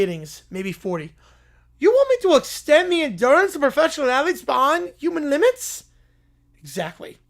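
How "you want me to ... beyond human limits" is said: incredulous. Acted. Incredulous doctor questions the commissioner.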